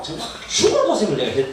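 "정말 죽을 고생을" with a Gyeongsang dialect lilt. Shown as a demonstration. Repeating his hardship to the church in Gyeongsang dialect. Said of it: "경상도 사투리로".

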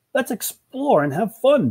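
high, stretched-out eager call; gleeful high exclamation; excited shout. Acted. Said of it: "Bill shouted".

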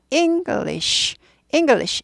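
English with high first syllable, ending in voiceless sh; ING-glish, the final sh only breath in English; whispered sh ending. Shown as a demonstration. Teacher modelling English, whispered final sh. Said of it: "속삭이고 끝나는 겁니다".

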